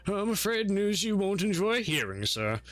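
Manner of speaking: polite formal butler. Acted. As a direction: deferential servant reporting to master. GM voices butler Archibald.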